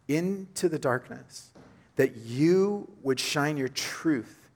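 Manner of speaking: hushed pastoral prayer; earnest prayer. Acted. Leads a prayer.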